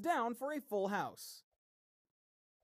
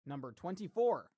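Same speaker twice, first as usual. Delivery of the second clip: steady bingo caller call-out. Acted. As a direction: announce each number like a hall caller. Calls bingo numbers.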